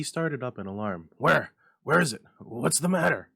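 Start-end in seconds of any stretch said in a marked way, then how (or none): 1.2-3.3 alarmed. Acted. Alarmed husband, loud high.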